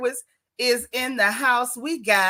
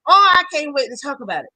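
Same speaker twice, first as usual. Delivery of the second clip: excited; 4 semitones higher, 7 dB louder, faster than usual. Real, not acted. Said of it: "I'm so excited".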